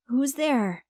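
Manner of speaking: sleepy voice. Acted. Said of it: "my mom called out in a sleepy voice".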